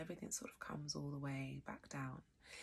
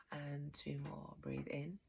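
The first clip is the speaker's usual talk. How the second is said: calm breath cues with long pauses; guided breathing; 5 dB quieter than usual. Real, not acted. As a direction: lead them gently through each breath.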